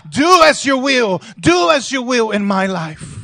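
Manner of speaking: preacher rousing the church that God is in control; full-force preaching. Acted. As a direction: shout the promise to the congregation.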